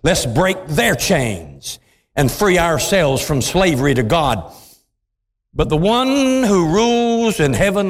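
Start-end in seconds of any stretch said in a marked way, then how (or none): 0.0-4.4 dropped-down sneering voice of the nations; lower, scornful rebel quote; low mocking nations. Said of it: "But they say".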